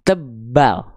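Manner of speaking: "tebal" dibaca tebal. Shown as a demonstration. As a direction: ucapkan "tebal" dengan pangkal lidah naik. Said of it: "maka dia harus dibaca". ("tebal" dengan suara tebal)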